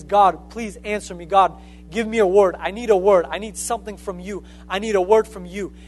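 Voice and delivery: a mild mock plea, pressing on the middle lines; Saul crying out. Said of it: "So he started crying out".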